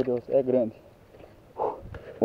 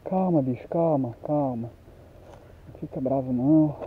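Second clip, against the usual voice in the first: soothing; 7 dB quieter than usual. Real, not acted. Soothing the hooked fish.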